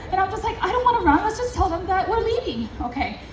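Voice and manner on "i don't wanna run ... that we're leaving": higher-pitched anxious pleading; retold nervous reluctance; scared. Scared woman begs companion not to run, anxious. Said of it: "I'm scared".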